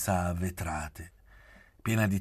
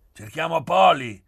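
high, loud call through a smile; 10 semitones higher, 13 dB louder than usual. A narrator's reading. Pieretto answering the woman's question, with a smile. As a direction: smile as you announce it loudly. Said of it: "disse Pieretto con un sorriso".

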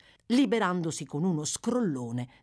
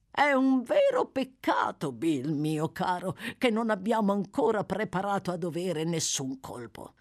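wheedling regret; 3 semitones higher than usual. Acted. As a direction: lament it to a dear accomplice. Fagin cajoles and laments to Bill.

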